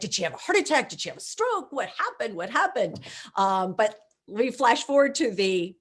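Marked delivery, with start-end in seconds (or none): 0.0-3.0 high, anxious rapid questions; worried family. Retold or imitated. Family calling from Cleveland, anxious and higher. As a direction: fire off panicked questions. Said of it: "they call, they're like".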